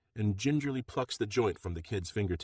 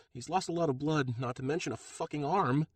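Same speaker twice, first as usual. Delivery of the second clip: bitter; 7 semitones higher than usual. A narrator's reading. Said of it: "she says bitterly".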